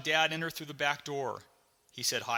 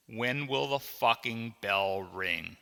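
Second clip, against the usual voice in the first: impatient; slower than usual. Acted. Bored boy waiting in slow class.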